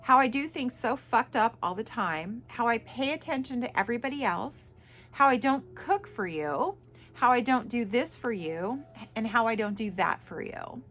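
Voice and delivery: firm, pointed letter reading. Real, not acted. Mother reading her email to the narcissist, firmly. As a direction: read each grievance out with weight. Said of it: "I'm reading this verbatim".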